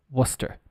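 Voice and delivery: "Worcester" said as WUSS-ter; correct pronunciation. Shown as a demonstration. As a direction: model "Worcester" in two syllables, WUSS-ter. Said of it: "it would be like this".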